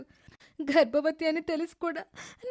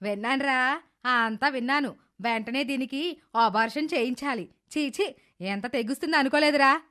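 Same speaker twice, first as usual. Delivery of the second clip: lower, sneering voice of the mother-in-law; scornful mother-in-law; 3 semitones lower than usual. Acted. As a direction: spit out the contempt in a low voice.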